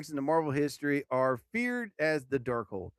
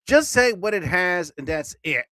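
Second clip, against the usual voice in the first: exasperated; 3 semitones higher, 5 dB louder than usual. Real, not acted. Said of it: "frustrated at long text".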